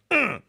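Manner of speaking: short, high, loud grunt of effort; shoving grunt. Retold or imitated. Host imitating Our Lady pushing someone along, effortful grunt. Acts out a push.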